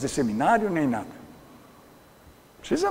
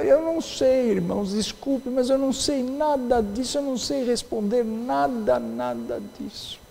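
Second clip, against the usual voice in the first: humble church candidate; 6 semitones higher than usual. Retold or imitated. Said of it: "Uma senhora foi, estava sendo examinada".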